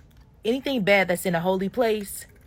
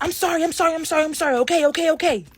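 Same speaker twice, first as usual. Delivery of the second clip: high, louder, rushed sorrys; panicked apology; 8 semitones higher, 4 dB louder, faster than usual. Retold or imitated. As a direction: gabble the apology like a scared kid. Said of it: "He was like".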